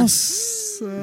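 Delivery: high, drawn-out gasp of surprise; espanto. Real, not acted. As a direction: react astonished, pitch shooting way up. Reage espantada à história contada. (surpresa exagerada, bem aguda)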